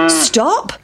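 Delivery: mild shouted stop; storybook shout. A narrator's reading. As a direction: call out as a cow, no extra volume. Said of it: "shouted the cow".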